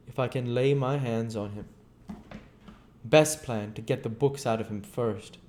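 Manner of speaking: a bitter, driven scientist telling his tale; lightly voiced, brooding fugitive; a hint of restless menace; Invisible Man.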